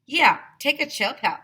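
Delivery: put-on high, loud teasing kid; Arlo teasing. A narrator's reading. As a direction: brush her off cheekily. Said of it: "I told Andrea".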